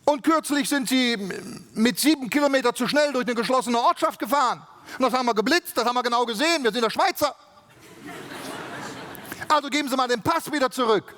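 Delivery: lightly hammed-up Swiss official; bossy Swiss official. Official's tirade continues.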